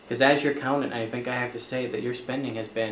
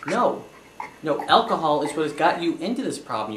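louder, firm scolding; stern scolding; 3 semitones higher, 5 dB louder than usual. Acted. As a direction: accountant scolds client about her drinking, firmly and loudly. Accountant scolding drinking client.

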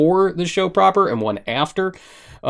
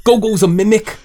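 weeb voice; 5 semitones higher than usual. Pretend. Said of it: "why do you sound like Jake Gyllenhaal and Bubble Boy".

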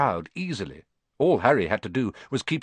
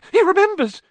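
much higher, louder squeal of delight; ecstatic cry; 9 dB louder than usual. A narrator's reading. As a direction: shout it to the whole pub. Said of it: "cried Daedalus Diggle".

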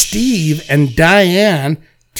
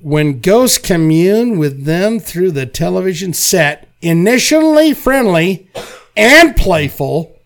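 movie trailer voice. Acted.

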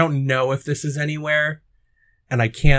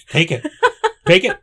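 rising, louder push of take it; pushy offer; 5 dB louder than usual. Acted. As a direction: shove the offer at them, suddenly loud. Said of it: "It's just like".

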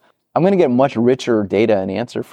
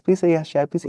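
mock pleading PM; 8 semitones higher, 4 dB quieter than usual. PM silently hoping, in his head.

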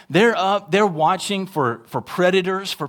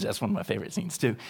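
normal talking voice

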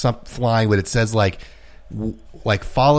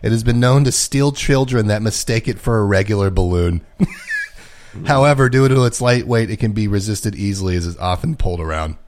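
reading aloud. Acted. Reads Pokedex entry.

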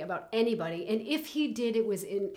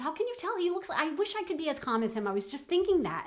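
imitating the friend, much higher; friend's admiring voice; 9 semitones higher, 3 dB louder than usual. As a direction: quote the friend in a raised, admiring voice. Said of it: "And she said".

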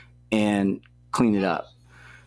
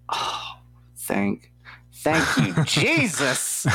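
choked-up thanks; 7 semitones higher, much slower than usual. Retold or imitated. Grateful reaction to offered room.

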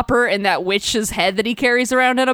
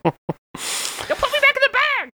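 much higher, slow shrieking hag voice; snarky witch head; slower than usual. Retold or imitated. Witch's head begs the barbarian, high and slow. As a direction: protest like a cranky head in a sack. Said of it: "She's like".

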